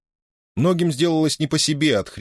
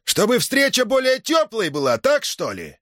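breaking voice; 14 semitones higher, slower than usual. Acted. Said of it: "рвущимся голосом продолжал".

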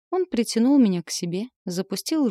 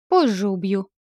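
promising threat; 5 dB louder than usual. Acted. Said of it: "пообещала я".

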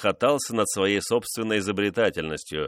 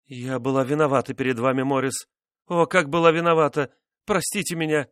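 high, rising plea for forgiveness; pleading; 6 semitones higher than usual. A narrator's reading. Wife confessing guilt to husband, pleading. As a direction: beg him to forgive you.

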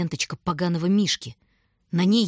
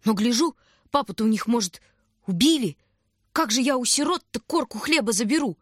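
shout; 5 semitones higher than usual. A narrator's reading. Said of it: "крикнул".

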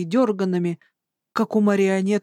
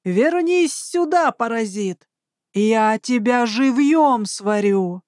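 angry yell; 3 semitones higher, slower than usual. Acted. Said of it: "выкрикивая".

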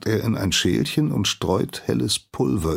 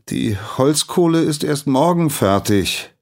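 half-loud call; 9 semitones higher, 5 dB louder than usual. Acted. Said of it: "ruft der Geselle halblaut".

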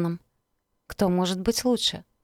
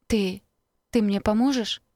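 trembling hopeful voice; 3 semitones higher than usual. Acted. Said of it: "В её дрожащем голосе зазвучала надежда".

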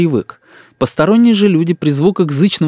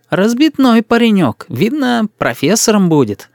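higher, slower doting granny voice; fussing old woman; 8 semitones higher than usual. A narrator's reading. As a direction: coo over the boy like a village granny. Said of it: "польстила мне Анна Васильевна". (старушка причитает над мальчиком)

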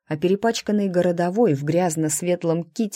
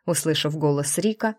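ordinary delivery, nothing marked

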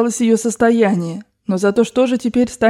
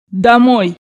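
short, loud command; shouted order; 2 semitones higher, 5 dB louder than usual. Acted. Grandmother ordering everyone home after losing, shouted command. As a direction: call it out as an order. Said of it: "крикнула бабушка".

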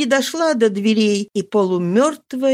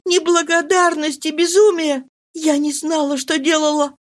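higher desperate wife's voice; Marie, desperate; 8 semitones higher than usual. A narrator's reading. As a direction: swear it to him, voice raised higher. Marie's voice in the reading.

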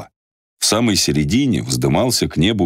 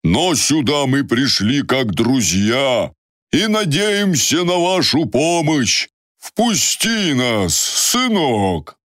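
weary traveler voice; 10 semitones higher, much slower than usual. Acted. Yaromir voiced in story.

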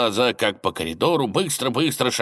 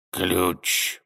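hissed; 3 semitones lower than usual. Acted. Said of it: "прошипела тень".

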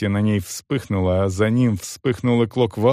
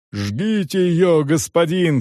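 higher, slow crowd shout; 6 semitones higher, slower than usual. A narrator's reading. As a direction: call for her burning. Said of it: "кричали люди".

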